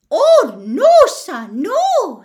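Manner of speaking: high, loud drawn-out elf protest; serious Dobby. Acted. Dobby corrects Harry about house elves, serious squeak. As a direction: squeak an earnest, emphatic denial. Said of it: "looking suddenly very serious".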